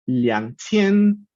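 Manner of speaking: "liang qian" sounded out in careful Mandarin tones; Mandarin pronunciation demo. Shown as a demonstration. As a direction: model "liang qian" syllable by syllable.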